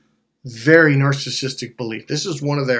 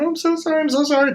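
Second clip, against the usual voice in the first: much higher, softer pleading; frantic apology; 13 semitones higher, 3 dB quieter, faster than usual. Retold or imitated. Narrator pulling the coworker off, apologizing to the lady. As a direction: apologize in a rush, flustered. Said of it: "to the lady".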